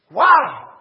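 loud, high whoop with a laugh; acted elation. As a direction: burst out in delighted disbelief. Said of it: "This individual is elated".

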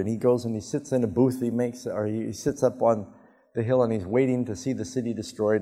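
ordinary talk

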